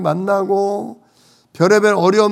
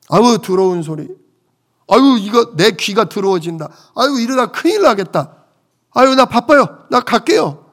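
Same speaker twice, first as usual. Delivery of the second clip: fussy, exasperated "아유" sighs, rising higher and louder to the hurried exit; mock disgusted brush-off; 4 semitones higher, 4 dB louder than usual. Pastor imitating a listener who refuses the gospel, exasperated. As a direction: act out someone fleeing the sermon in mock disgust.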